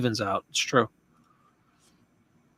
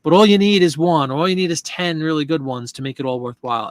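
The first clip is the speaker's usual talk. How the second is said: fired-up excitement; 3 semitones higher, 4 dB louder than usual. Retold or imitated. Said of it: "I'm like".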